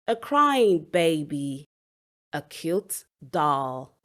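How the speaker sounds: put-on slowly, stressing "shoes", "lion", "cell phone", "girl", "baby", "doll"; slow demo phrases leaning on the nouns "shoes", "lion", "cell phone", "girl", "baby", "doll". Shown as a demonstration. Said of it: "you stress the noun".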